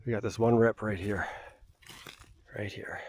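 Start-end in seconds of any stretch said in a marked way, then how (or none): 2.6-3.0 whispered aside; whispering. Real, not acted. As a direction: drop to a whisper. Pointing out rip quietly.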